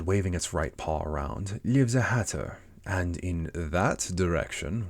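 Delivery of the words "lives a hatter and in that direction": Cheshire Cat. Acted. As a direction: stretch the words out like a leisurely storybook cat. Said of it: "the cat said".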